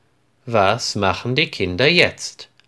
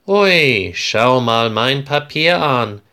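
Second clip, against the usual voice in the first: excited; 2 semitones higher, 3 dB louder than usual. Acted. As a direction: show off your paper to a friend, thrilled. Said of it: "sagt Florian aufgeregt".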